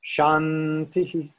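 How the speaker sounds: slow "shantihi" with a breathed "hi" echo at the end. Shown as a demonstration. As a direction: stretch "shantihi" as a chant. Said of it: "and that is that echo".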